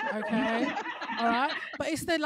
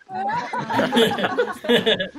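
much higher, louder, laughing; gleeful punchline; 7 semitones higher, 9 dB louder than usual. Real, not acted. Comic telling audience of her marriages, gleeful laughing shriek. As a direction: shriek it out with triumphant glee.

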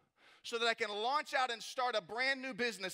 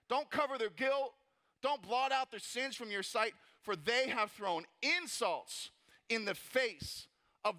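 praying mean; slower than usual. Acted. Nehemiah calling on God against the insulters, praying mean. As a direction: press each plea home firmly. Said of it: "He's praying mean on 'em".

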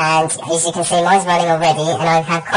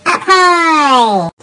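much higher, louder, pitched-up squeal; 10 semitones higher, 5 dB louder than usual. Shown as a demonstration. Showing the voice morpher to viewers, squeaky high shout. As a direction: shoot the voice way up with the morpher. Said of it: "where I can go".

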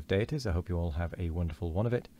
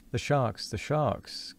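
higher-pitched warning cry; alarmed cry; 6 semitones higher, slower than usual. Acted. A voice from the cabin window warning Ahab, higher alarmed cry. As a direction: call out the danger, pitched up. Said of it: "cried a voice".

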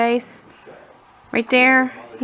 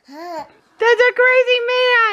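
much higher, slow playful singsong; 13 semitones higher than usual. Real, not acted. Teasing toddler.

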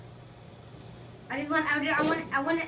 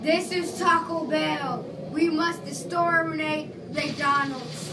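menacing villain; 3 dB louder, much slower than usual. Pretend. Villain declaration, slow.

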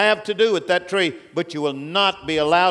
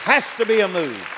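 preaching at full force; 5 semitones higher, 5 dB louder than usual. Real, not acted. Man of God warning the church, loud and high. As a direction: thunder the warning over the house.

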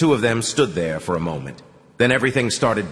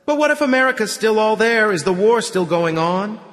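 high, louder eager asking; eager question; 12 semitones higher, 4 dB louder than usual. A narrator's reading. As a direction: ask hopefully, pitched up. Excited question at table.

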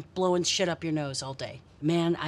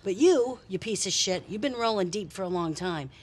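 tough cop. Acted. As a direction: lean in and threaten like a hard cop. Cop interrogating, bad cop.

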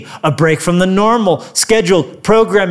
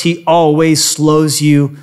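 slowing down on purpose; 4 semitones lower, slower than usual. Acted. Preacher slowing down for effect.

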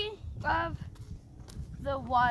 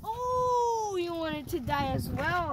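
shouting; 5 semitones higher, 3 dB louder, slower than usual. Acted. Kid taunting enemies in game.

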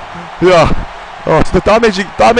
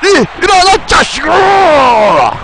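taunting shout; 12 semitones higher, slower than usual. Real, not acted. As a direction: yell at him to stand up. Yelling at opponent to get up.

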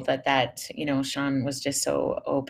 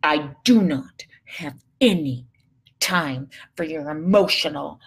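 slow, stern, half-whispered scolding; slower than usual. Retold or imitated. Mother scolding her daughter's meltdown, slow and stern. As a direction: lay down the law slowly, through the teeth. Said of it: "this is what I was saying to her".

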